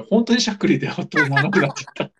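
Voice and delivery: hiccup breaking the words. Real, not acted. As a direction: talk through real hiccups.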